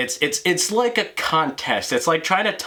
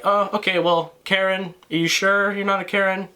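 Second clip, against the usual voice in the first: mocking taunt; 6 semitones higher than usual. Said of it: "And so I'm just like".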